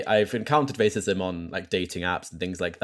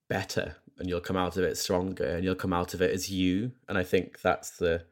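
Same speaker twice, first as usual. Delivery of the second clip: tender. Real, not acted. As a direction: gently reassure your younger self. Heartfelt advice to younger self.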